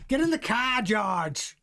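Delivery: lightly voiced team boss, drifting toward a pirate; Toto Wolff impression. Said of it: "it sounds more like Pirates of the Caribbean".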